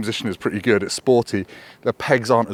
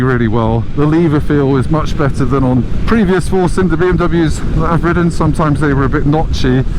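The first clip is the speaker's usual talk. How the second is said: raised voice over the wind; shouting over wind; 4 dB louder than usual. Real, not acted. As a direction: talk up over the road noise. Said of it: "so you can hear me over the wind noise".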